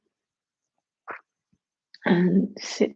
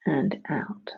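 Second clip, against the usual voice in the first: whispering; 5 semitones lower, 6 dB quieter than usual. Acted. Breath cue in/out.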